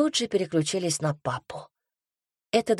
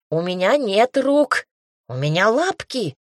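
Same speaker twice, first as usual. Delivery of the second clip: protesting cat; 3 semitones higher, 4 dB louder than usual. Acted. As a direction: fend the girls off as a put-upon cat. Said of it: "пытался отбиваться кот". (кот возмущённо отбивается от девочек)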